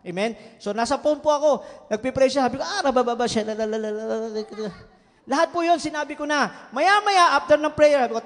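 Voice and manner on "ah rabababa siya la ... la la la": speaking in tongues. Retold or imitated. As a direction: lightly imitate praying in tongues. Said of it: "nag-speaking in tongues po ako".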